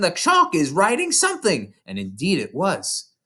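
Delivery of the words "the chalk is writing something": scream. A narrator's reading. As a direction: yell it in panic. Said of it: "Nigel screamed".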